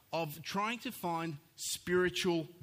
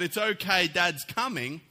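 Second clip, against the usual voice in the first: raised, louder retold reassurance; calling out; 5 semitones higher, 8 dB louder than usual. Dad crashing about calls to his crying son, calling out. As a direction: call out over the crying, pitched up a little. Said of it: "I'm calling out".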